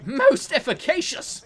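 high, slow hammy catchphrase; character catchphrase voice. Retold or imitated. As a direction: stretch it out high and grand. Quoting game character catchphrase.

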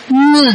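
ngơ hummed through the nose; a model ngơ with a nasal onset. Shown as a demonstration. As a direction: start ngơ in the throat and nose. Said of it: "Âm ngơ là có mũi nha".

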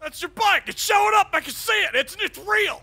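excited colonel shout. Acted. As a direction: shout it in disbelief. Colonel amazed at bike.

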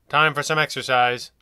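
sharp loud command to a convict; barked order. Acted. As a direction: bark it like a prison guard. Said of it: "he barked".

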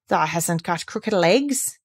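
hoarse quaver. Acted. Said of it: "quavered Ben more hoarsely yet".

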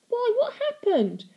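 high, loud, slow pleading; frightened. A narrator's reading. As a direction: ask in dread. Frightened girl.

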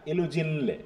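ইলুজিনলে said slowly, every syllable clear, the le sounded; local pronunciation. Shown as a demonstration. Teacher modelling ইলুজিনলে slowly for students. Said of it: "এলি থাকলে এলিটা উচ্চারণ করব".

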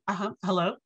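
casual, composed phone hello; feigned calm. Retold or imitated. Student answering the awaited call, very calmly. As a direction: answer coolly, as if unbothered. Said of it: "very calmly and I say".

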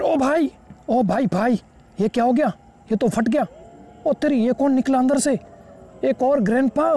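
high, frantic yelps of alarm; high-pitched gaming panic; panicked shock. Real, not acted. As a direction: freak out as a second monster appears. New grandpa bursts out, panic.

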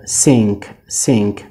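سینک with N sent through the nose before K; nasalised "ng" in سینک; nasal N. Shown as a demonstration. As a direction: say سینک as "singk", low and falling.

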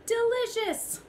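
high, loud cry of delight. A narrator's reading. Goat narrator exclaiming over the stolen plants, delighted. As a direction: savour it like a greedy goat.

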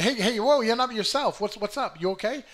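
lightly voiced friend checking in; a hint of a worried pal; concerned friend. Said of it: "endearing friends who, uh, notice that".

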